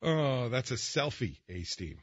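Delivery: winded from laughing, words trailing; after laughing hard. Real, not acted. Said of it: "we're dying in here".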